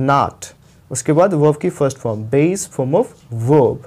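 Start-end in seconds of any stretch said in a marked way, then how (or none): 0.1-0.4 not said with an open o; British not. Shown as a demonstration. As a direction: say not as naat. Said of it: "इसको बोलना है not".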